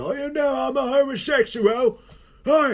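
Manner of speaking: high camp gangster voice; twin impression. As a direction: play the flamboyant twin, up high. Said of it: "he stands like Bane".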